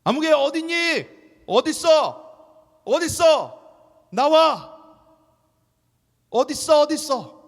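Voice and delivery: put-on high, loud panicked shouting for a lost child; frantic yelling. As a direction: scream for the missing child. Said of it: "막 소리를 지를 거예요".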